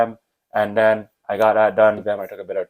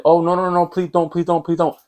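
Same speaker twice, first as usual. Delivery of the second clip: high, pleading mock panic; panicked pleading; 7 semitones higher than usual. Teacher begging student not to call mom, high mock panic. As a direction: beg him not to, in hammed-up fright. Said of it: "and then he's like".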